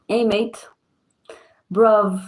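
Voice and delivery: lightly imitated British slang accent; mock British slang accent. Imitating how everybody talks, mock British slang accent. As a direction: put on a casual British street accent. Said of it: "That type of English".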